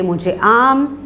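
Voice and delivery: "मुझे आम" lifted at the end, then stop; pause after आम. Shown as a demonstration. Teacher showing she stops at the comma, pause after आम. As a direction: leave आम hanging before the next item. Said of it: "यानी मैं ठहर गई".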